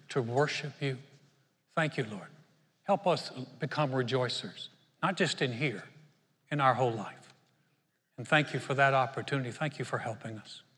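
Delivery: earnest, steady prayer voice; pastor's prayer. Acted. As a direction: pray humbly for the congregation. Leads closing prayer.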